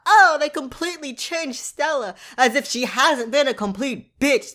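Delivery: exaggerated put-on grievance; mock complaint. Mocking fans' main complaint.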